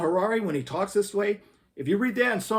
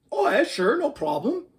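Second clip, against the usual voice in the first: cocky scientist; 8 semitones higher, 3 dB louder than usual. Acted. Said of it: "The scientist nodded".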